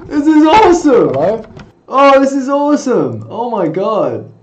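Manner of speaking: loud, high burst of delight; thrilled. Real, not acted. Streamer finds his camera effect is awesome, thrilled. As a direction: exclaim it like a gleeful discovery.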